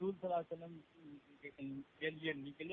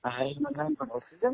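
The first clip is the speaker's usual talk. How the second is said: higher and louder, calling over a bad line; loud instruction; 7 semitones higher, 11 dB louder than usual. Real, not acted. Reader calling instructions over a weak phone line, loud. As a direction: call it out so the far end hears.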